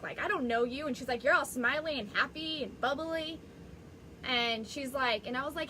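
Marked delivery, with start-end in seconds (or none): 0.2-0.9 retold with a sarcastic edge. Acting out an upset neighbor's snub, sarcastic. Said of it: "it was like this sarcastic". 1.2-3.4 mocking imitation of a snide neighbor, pitched up; sarcastic. Neighbor sneering at her smiling in Costco, sarcastic. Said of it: "it was like this sarcastic".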